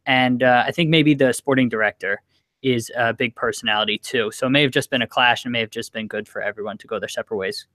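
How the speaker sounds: rapid-fire run through the rumors; talking really fast. Real, not acted. Hurrying for a co-host with places to be, talking fast. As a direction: rattle it off fast. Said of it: "you were talking really fast".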